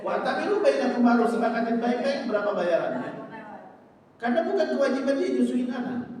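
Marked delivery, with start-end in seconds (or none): 0.0-1.3 emphatic recitation. Shown as a demonstration. Verse recited again with force.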